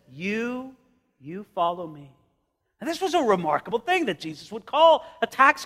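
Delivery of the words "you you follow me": simple. Acted. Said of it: "he just simply says".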